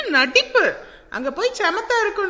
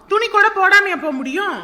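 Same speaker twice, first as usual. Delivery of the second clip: scolding shout; 5 semitones higher, 6 dB louder than usual. Real, not acted. Mother scolds crying child.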